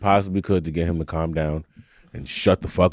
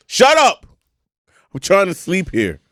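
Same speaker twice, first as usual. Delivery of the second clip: mock yell at baby; 8 semitones higher than usual. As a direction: bark it like you've lost patience mid-flight. Yelling at the crying baby.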